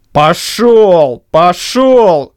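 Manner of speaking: loud, falling dismissal; shouting. A narrator's reading. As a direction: shove him away with the words. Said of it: "кричал кузнец".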